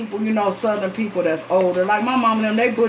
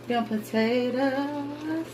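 drawn out; 5 semitones higher, 7 dB quieter, much slower than usual. Acted. Cook showing viewers the pot, slowly drawn out. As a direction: stretch Them potatoes slowly and softly.

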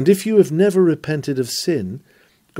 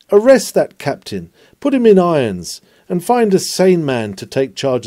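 ringing command; 4 semitones higher, 4 dB louder than usual. Acted. Calling out an order.

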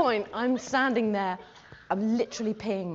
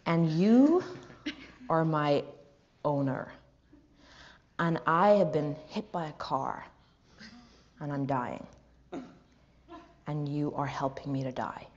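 imitating an actor; 5 semitones lower than usual. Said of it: "I'll show you what he did".

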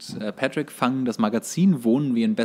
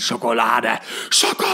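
screaming fish; 5 dB louder than usual. Retold or imitated. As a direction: yell it while chasing them. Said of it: "der ihn immer schreiend nachrennt".

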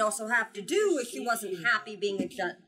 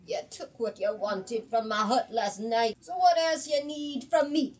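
indignant witch; 2 semitones higher, 5 dB louder than usual. Acted. The old witch challenging the Jumbi, indignant and rising. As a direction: snap back at the intruder.

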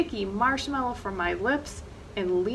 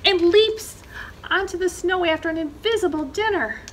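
louder, higher and fast, the fox springs; lively pounce; 7 semitones higher, 6 dB louder, faster than usual. A narrator's reading. Narrator telling the fox's pounce, quick and louder. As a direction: burst forward with the leap.

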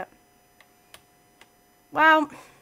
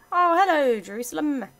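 pleased surprise; 4 semitones higher, 5 dB louder than usual. Real, not acted. Meeting a city-state.

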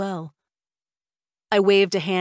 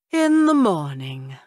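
slow, drowsy echo; sleepily; 5 dB louder, slower than usual. Acted. Mother snuggled in her sleeping bag, answering sleepily and slowly. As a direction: murmur it as if already drifting off. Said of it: "she said sleepily".

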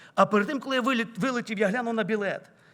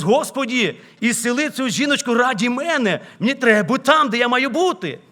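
louder pleading prayer to God; urgent retold prayer; 3 semitones higher, 7 dB louder than usual. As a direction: plead out loud to God in a hurry. Praying urgently on delayed plane. (переказана гучна, нагальна молитва)

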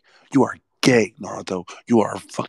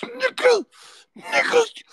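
falsetto squeal; much slower than usual. Real, not acted. Outraged squeal at the character.

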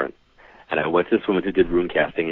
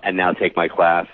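mock sales pitch; slower than usual. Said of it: "I was waiting for the".

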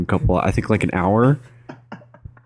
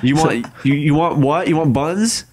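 confused worker; 6 semitones higher than usual. Pretend. Acts out drive-thru.

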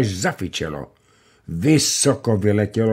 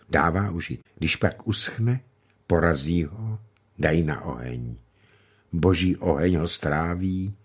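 lightly voiced old grandmother; 2 semitones lower than usual. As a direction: speak gently about life passing. Grandmother's long reflection.

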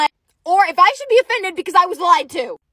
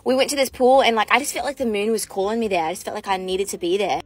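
put-on dreamy mystical island girl; 7 semitones lower than usual. Woman feeding a lie to a man at a club, low and dreamy. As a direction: spin a moony tale like a mermaid would. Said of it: "keep playing the role".

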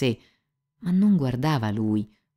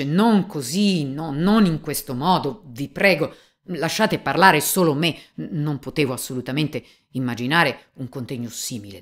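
higher, louder, pleading urgently; agitated plea; 4 semitones higher, 4 dB louder than usual. Acted. Young examiner to the police chief, agitated raised plea. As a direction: beg him to stop, voice raised.

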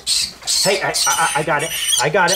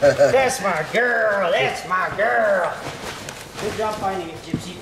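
praising dog; 3 dB louder, slower than usual. Real, not acted. Praising dog after catch.

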